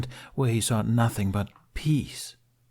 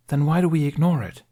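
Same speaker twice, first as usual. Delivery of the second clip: raised, higher frustrated question; 7 semitones higher, 5 dB louder than usual. A narrator's reading. Apprentice pressing his master, frustrated and louder. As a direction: push back, exasperated.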